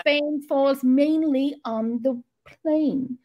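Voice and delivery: slow, carefully pronounced practice sentence; elocution drill. Shown as a demonstration. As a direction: pronounce every word slowly, as in elocution class. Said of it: "pronounce our words".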